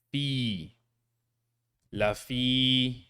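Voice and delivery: La fi with fi drawn out; short la, long fi; long at the end. Shown as a demonstration. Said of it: "the long in the end".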